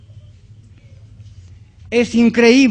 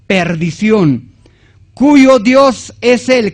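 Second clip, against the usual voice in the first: forceful preacher reading, stressed words louder; emphatic scripture reading; 3 dB louder than usual. Acted. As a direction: read the verse out to drive it home. Rereads the verses to congregation.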